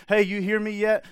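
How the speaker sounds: acted call to someone not listening. God calling to distracted listener.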